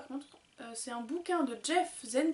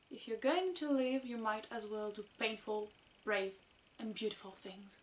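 French-accented English; 3 semitones lower, 5 dB quieter than usual. Shown as a demonstration. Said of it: "mon accent n'est pas toujours parfait".

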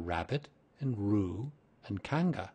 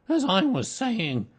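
slow, raised, insistent voice; resume firmly and loudly, less drawn out; stern resumption; 12 semitones higher, 7 dB louder, slower than usual. A narrator's reading. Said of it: "loudly and sternly".

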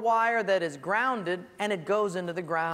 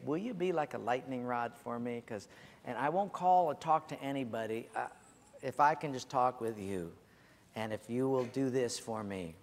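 softer, lower, confiding ask; a softer, lower plea to a trusted friend; quiet request; 7 semitones lower, 5 dB quieter than usual. Retold or imitated.

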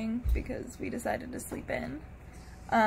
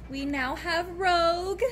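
teary; 7 semitones higher, 3 dB louder than usual. Real, not acted. Emotional puppy arrival thanks.

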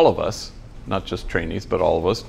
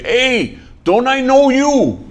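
a loud, high, drawn-out call to a stranger; loud hey; 13 semitones higher, 5 dB louder, slower than usual. Retold or imitated. Big homie calling to a stranger, loud and slow. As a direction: boom it out, slow and much higher.

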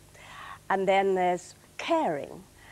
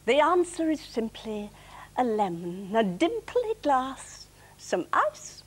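weary gardener's verse, measured and drawn out; deliberate poetry reading; comic poem recital; slower than usual. Acted. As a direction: recite it slowly, pausing before the punchline.

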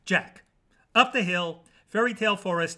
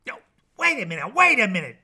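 quick, urgent interruption, getting louder; hurried cry, second one louder; 3 semitones higher, 6 dB louder, faster than usual. A narrator's reading. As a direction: break in to halt the story. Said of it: "cried Jack the narrator".

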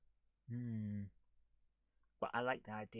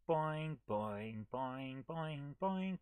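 bouncing boings; much slower than usual. Shown as a demonstration. Imitates text bouncing across screen.

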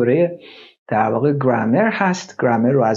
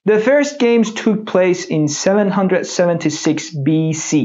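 slow textbook reading; 4 semitones higher, much slower than usual. Shown as a demonstration. Teacher reads text slowly.

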